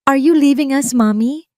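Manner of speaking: put-on high, loud child voice between sobs; a small girl pleading through tears; little daughter asking mommy if she's leaving, high and tearful; child's tearful question. A narrator's reading. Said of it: "Bulong ni Angela sa pagitan ng mga hikbi".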